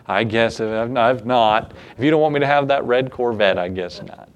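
hammed-up grudging surrender; mock reluctant prayer. Mock reluctant prayer about a Corvette.

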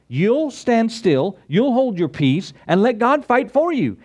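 rising preaching. Real, not acted. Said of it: "preaching climax".

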